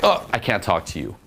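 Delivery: light mock refusal; playful. Shown as a demonstration. Coach showing guys a takeaway, playful. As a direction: tease without any real hurt. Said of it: "just very playful".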